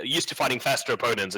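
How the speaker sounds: normal talking voice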